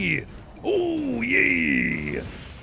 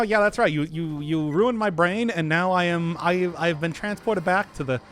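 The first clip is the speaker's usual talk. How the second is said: 1930s cartoon voice. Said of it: "this is how I talk all the time now".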